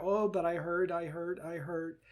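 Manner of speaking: soft, small plaintive repeat; a wounded part pulling back; mild voice of the hurt part. Shown as a demonstration. The hurt part rocking back, softly plaintive. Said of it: "let it rock gently back".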